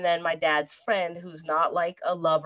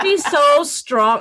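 higher and louder, slow, through laughter; laughing; 9 semitones higher, 10 dB louder, slower than usual. Real, not acted. Praising her tough mother, laughing. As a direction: gush while laughing.

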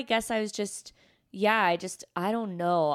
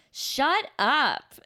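higher, louder embarrassed shut up; dismissive brush-off; 5 semitones higher, 4 dB louder than usual. Retold or imitated. Brushing off her husband's wedding speech, embarrassed snap. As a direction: swat the compliment away.

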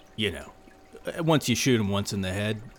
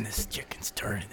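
whisper; 3 semitones lower, 11 dB quieter than usual. Acted. Grossed out by stinking chicken.

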